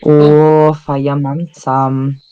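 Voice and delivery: put-on slow, drawn-out Welsh Valleys accent; mock Valleys Welsh. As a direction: linger on it in a playful Welsh lilt. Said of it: "it could be a Valley's accent".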